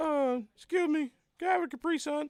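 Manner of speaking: put-on very high, small little-kid voice. Telling how a little one interrupted him while working: imitating a little kid. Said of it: "Here come this little".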